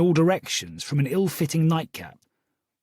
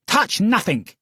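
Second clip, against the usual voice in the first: Cockney growl; 6 semitones higher, 3 dB louder than usual. A narrator's reading. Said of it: "the woman growled in a distinctly Cockney accent".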